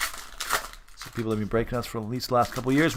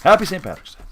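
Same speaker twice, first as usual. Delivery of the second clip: mock Irish accent; 6 semitones higher than usual. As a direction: throw on a playful Irish accent for St Patrick's Day. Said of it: "That's my Irish accent".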